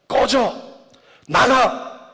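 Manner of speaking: short, high-pitched cries of rejection; acted cry. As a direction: cry it out as if banishing the bad thought. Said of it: "이렇게 외치면서". (높은 소리로 외치며 쫓아내듯)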